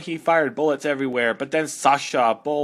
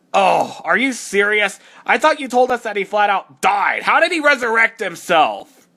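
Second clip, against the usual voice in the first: incredulous; 5 semitones higher, 5 dB louder than usual. Acted. Character reacts to Mario's return.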